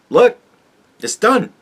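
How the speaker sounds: high, rising to a shrill squeal at the end, mock gloating; mocking gloating officials. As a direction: play a smug insider crowing that nothing can stop them. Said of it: "Just so that they can show us".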